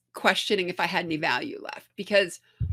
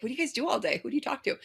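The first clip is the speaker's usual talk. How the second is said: amused disbelief; 6 semitones higher, 6 dB quieter, much faster than usual. Retold or imitated. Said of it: "I was like".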